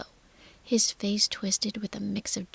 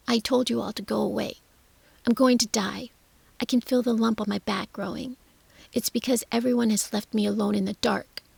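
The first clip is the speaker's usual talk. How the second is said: put-on whiny raised boy voice, near tears; sulky spoilt child wailing; petulant sick boy; 4 dB louder, faster than usual. Sick boy wails at Mary.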